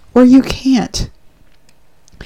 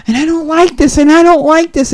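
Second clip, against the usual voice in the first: grumbling clay; 6 semitones higher than usual. Acted. Clay complaining on the wheel.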